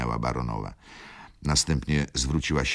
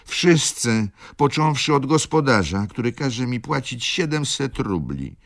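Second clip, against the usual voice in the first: higher, louder accusation; baroness accusing; 11 semitones higher, 5 dB louder than usual. Acted. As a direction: point the finger at everyone.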